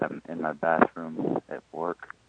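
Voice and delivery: dropping to a whisper at work; hushed. Real, not acted. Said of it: "sorry, I have to be quiet".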